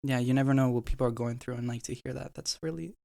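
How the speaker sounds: words breaking up through tears; crying. Real, not acted. Moved podcast guest admitting he needed it, tearful. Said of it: "Don't cry".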